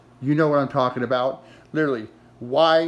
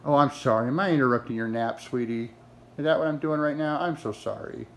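sarcastic; 3 dB quieter than usual. Real, not acted. Sarcastic apology to napping dog.

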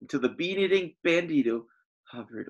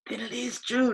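decreed; 11 semitones higher than usual. Acted. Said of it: "decreed Don Diego".

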